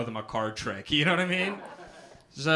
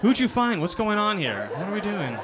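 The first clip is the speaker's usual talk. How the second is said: confused friend; 6 semitones higher than usual. Acted. Confused friend receiving photo.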